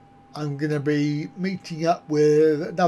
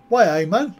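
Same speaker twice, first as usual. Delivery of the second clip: put-on Geordie accent; 2 semitones higher, 4 dB louder, faster than usual. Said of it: "Have you actually got the accent as well".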